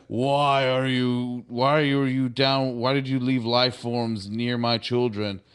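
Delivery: lightly voiced booming being, slow at first; slow, imposing imitation of an alien entity; big booming voice. The being demands answers about its children, booming. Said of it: "this big booming voice".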